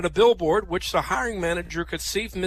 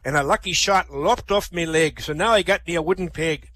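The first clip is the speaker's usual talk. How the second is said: pirate spinning his sea tale; Sol. Acted. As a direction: tell it like an old sea dog. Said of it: "Sol says".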